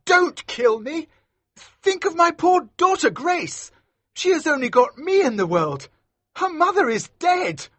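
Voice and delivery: very high, loud desperate plea; begging for life. A narrator's reading. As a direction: plead in panic for your life. Maskew begs for his life.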